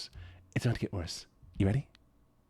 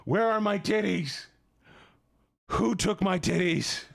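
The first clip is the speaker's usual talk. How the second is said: mock distress; 2 semitones higher than usual. Mock outcry over stolen body part.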